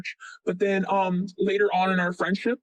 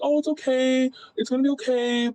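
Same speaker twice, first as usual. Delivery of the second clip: higher, soothing retold comfort; reassuring; 5 semitones higher than usual. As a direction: comfort a friend in a raised, gentle pitch. Retold comforting of depressed friend.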